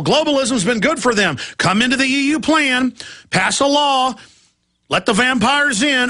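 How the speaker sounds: lightly hammed-up huckster voice; mock globalist salesman. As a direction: sweet-talk Ireland into the deal, mocking. Mocks globalist sales pitch to Ireland.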